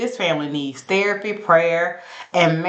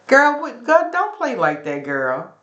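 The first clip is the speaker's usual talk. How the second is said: mock outraged scold; 8 semitones higher than usual. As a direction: squeal it out like a scandalised girlfriend. Retold scolding quote, high and loud.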